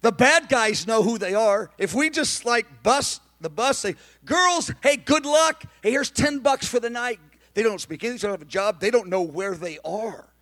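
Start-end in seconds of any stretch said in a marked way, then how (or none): 4.2-7.2 mock careless send-off. Mock dismissal of freed women.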